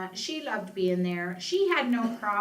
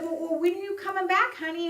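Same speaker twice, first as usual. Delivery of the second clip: put-on much higher, sweet old mother voice; mama's voice; 10 semitones higher, 3 dB louder than usual. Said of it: "And she said".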